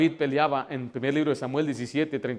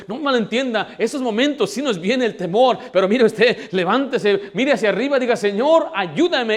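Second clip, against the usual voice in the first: loud, raised, exhorting preacher voice; preaching at full force; 3 semitones higher, 6 dB louder than usual. Real, not acted. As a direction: drive it home to the congregation, loud and high. (predicación enérgica a plena voz)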